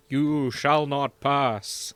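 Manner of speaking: quoting Gandalf. Retold or imitated. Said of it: "I only remember the important phrases, like".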